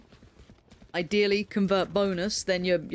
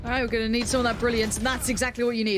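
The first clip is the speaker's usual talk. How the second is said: esports caster; 3 semitones higher than usual. Acted. Live play-by-play of a round.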